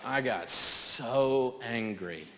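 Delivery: very slow, dragged-out I got so angry; slow emphatic. Real, not acted. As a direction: let each word of I got so angry hang. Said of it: "That's how angry I was".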